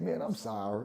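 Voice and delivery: low, soft, sheepish apology; meek and hushed, pitch dropped; retold apology. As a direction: back down quietly. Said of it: "I said".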